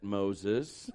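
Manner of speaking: low, soft divine voice; deep, hushed voice of God; the Lord. Acted. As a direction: intone the name deep and gently. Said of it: "let's go back to that".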